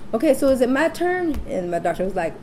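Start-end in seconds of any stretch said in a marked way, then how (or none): 0.1-1.4 higher, eager questioning lift; mock impatient. Laboring mother asking doctor for her turn, mock impatient. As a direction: re-enact an impatient patient's plea.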